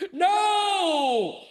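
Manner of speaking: high shouted no, mimicking the staff; mock outraged shout. Staff shouting back at the new boss, high mock yell. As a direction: yell it like a room full of protesting staff.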